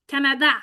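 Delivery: Canada with every A open and frank, like the A of Pat; clear A vowels. Shown as a demonstration. Teacher showing how Carney pronounces his A clearly. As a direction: say Canada with bright, open A sounds. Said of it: "Ses A sont très francs".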